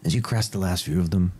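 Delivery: steady storyteller narration; story narration. Acted. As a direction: paint the journey for the players. GM sets the scene.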